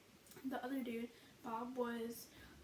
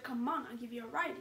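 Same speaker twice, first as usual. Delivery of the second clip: pushy, louder insistence; forceful demand; 5 dB louder than usual. Retold or imitated. Coworker pushing her to take a ride, forceful and loud. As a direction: press her hard into the car. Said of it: "you know, like, forcefully".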